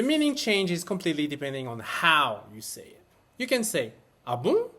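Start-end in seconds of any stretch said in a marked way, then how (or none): 4.3-4.7 curious, open question; sincerely curious ah bon; genuine curiosity. Shown as a demonstration. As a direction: ask it with real interest. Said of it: "with genuine curiosity".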